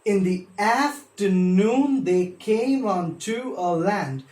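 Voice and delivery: slow verse beat on AFTERNOON, CAME, UNTO, LAND; scanning the accents. Shown as a demonstration. Teacher showing five accents in a line, slow stressed scansion. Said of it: "five accents".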